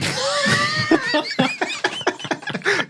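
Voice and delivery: burst of laughter. Real, not acted. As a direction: break into a big laugh. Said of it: "couldn't even say that with a straight face".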